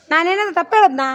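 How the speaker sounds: indignant retort. Acted. Actor rehearsing an angry line.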